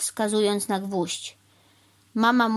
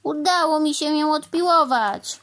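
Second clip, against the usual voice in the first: high, loud delight; triumphant exclamation; 8 semitones higher, 5 dB louder than usual. A narrator's reading. Cow having sawn through the board, triumphant. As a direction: announce your success proudly. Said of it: "zawołała mama mu".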